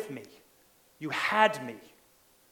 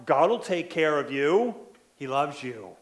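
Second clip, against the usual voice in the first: sarcastic taunt; 4 dB louder than usual. Acted. Enemies sarcastically mocking David's trust in God, loud sneer. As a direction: jeer at him with fake concern. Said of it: "David's enemies are sarcastically saying".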